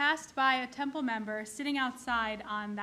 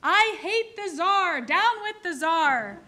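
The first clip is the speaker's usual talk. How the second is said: louder, slow defiant shouting; crying out; 5 semitones higher, 8 dB louder, slower than usual. Retold or imitated. Drowning man baiting the soldiers, hammed-up shout. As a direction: bellow it as a mock protest slogan. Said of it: "the man cries".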